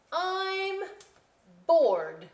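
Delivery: drawn-out, heavy bored groan. Acted. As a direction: sound utterly fed up. Title read in bored voice.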